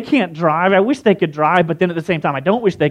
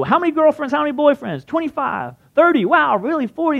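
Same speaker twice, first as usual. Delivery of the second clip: higher, lightly put-on Southern comedian voice; Larry the Cable Guy's accent; 9 semitones higher than usual. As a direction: quiz the crowd in a Southern twang. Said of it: "he's got this weird accent".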